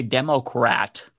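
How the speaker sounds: "Democrat" carefully said with a clear r; careful "Dem-o-crat"; self-conscious enunciation. Shown as a demonstration. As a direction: enunciate every syllable of "Democrat". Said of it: "gonna be self-conscious".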